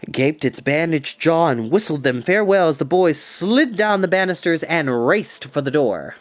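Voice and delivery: plain reading voice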